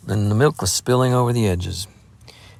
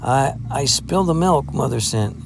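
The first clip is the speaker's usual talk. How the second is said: stumbling, flustered, slightly higher; confused stammer; 4 semitones higher than usual. Acted. Lad explaining the spilled milk to Adam, flustered stammer. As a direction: trip over the words, embarrassed. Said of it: "he replied in confusion".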